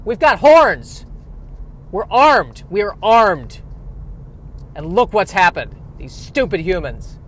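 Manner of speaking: loud, high outraged animal voice; indignant rhino. Pretend. The rhinoceros complaining about humans, high loud mock outrage. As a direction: rant like a betrayed rhinoceros.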